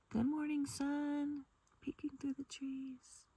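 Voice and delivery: high, gentle morning greeting; tender greeting. Real, not acted. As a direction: greet the sun in a high voice, softening at the end. Greeting the rising sun.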